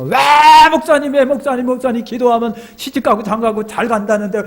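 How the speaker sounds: high-pitched mock crying complaint; tearful wailing. Young woman phoning her pastor about marriage, mock tearful wail. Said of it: "하고 막 울면서".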